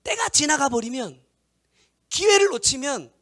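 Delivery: loud, high, impassioned preaching; full-force preaching. Acted. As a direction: preach it out hard to the congregation. (힘껏 외치는 설교)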